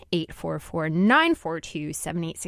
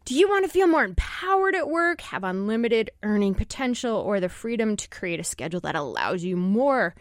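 infomercial voice. Acted. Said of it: "I sound a little like an infomercial now".

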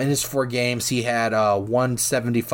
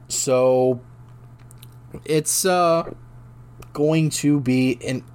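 hiccupping mid-sentence; struggling through hiccups; 3 semitones higher, much slower than usual. Real, not acted. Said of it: "give me a second".

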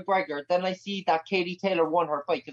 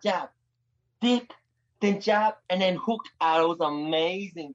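Conor McGregor impression. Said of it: "Katie Taylor meets Conor McGregor".

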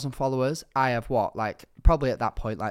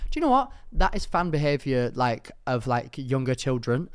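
mock lecturing tone. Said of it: "And I'm like".

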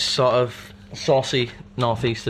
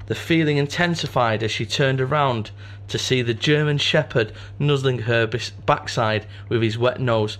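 story narration; slower than usual. Acted. Reads story aloud.

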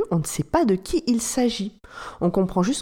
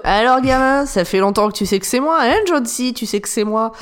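movie villain. Retold or imitated. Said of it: "voix de méchant mal doublée".

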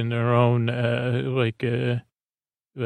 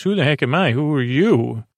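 mildly sassy comeback, pitched up; retold attitude; 2 semitones higher than usual. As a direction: lightly imitate someone throwing the question back. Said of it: "Mickey's got his own attitude".

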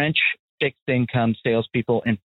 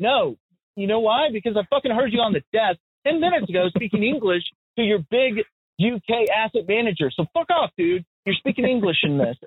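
higher-pitched, exasperated comeback; indignant retort; 7 semitones higher than usual. Retold or imitated. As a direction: retell it as a fed-up telling-off. Acted indignant retort to French colleague.

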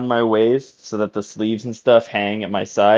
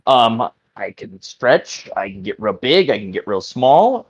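very unsure. Acted. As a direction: offer it up like you don't believe it yourself. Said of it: "very, very unsure of that fact".

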